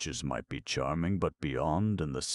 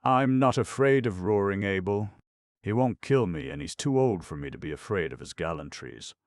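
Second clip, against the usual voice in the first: laughing reply; 5 semitones higher, 5 dB louder than usual. A narrator's reading. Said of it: "She laughed and said".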